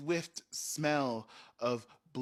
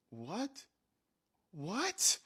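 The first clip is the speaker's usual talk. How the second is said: freaked out; 7 semitones higher than usual. Retold or imitated. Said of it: "They freaked out".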